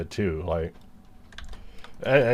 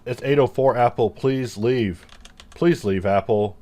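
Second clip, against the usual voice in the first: pleading with cat; 4 semitones higher, 3 dB louder than usual. Real, not acted. Scolding the cat.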